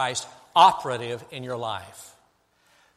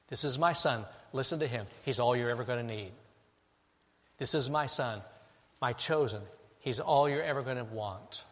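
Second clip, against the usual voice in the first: tender quote; 2 semitones lower, 4 dB quieter than usual. Acted. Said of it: "Jesus is sufficient".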